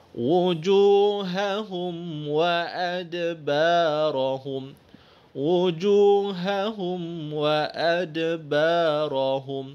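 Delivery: وأدبارهم with a bounced dal, recited; Quranic recitation. Shown as a demonstration. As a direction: recite وأدبارهم letting the د echo.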